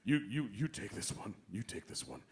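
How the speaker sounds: low, soft, faltering mock-tearful voice; choked-up Grammer. Grammer too teary to answer, low and soft. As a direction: wave it off, too moved to speak. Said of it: "He'd go".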